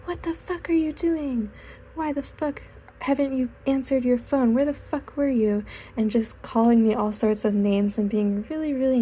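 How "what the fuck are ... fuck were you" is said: imitated cursing out. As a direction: act out an annoyed driver cursing someone out. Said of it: "he started cursing me out".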